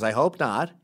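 lightly put-on gay man's voice; imitated friend, mildly affected. Friend answering back, in a mock gay voice. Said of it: "I'm making him, uh, a gay voice".

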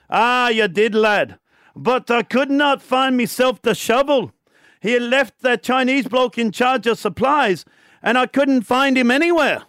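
a hint of an old Scots labourer; Scottish accent. Scotsman answering the foreman, light Scottish accent. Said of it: "I love when you do your accents".

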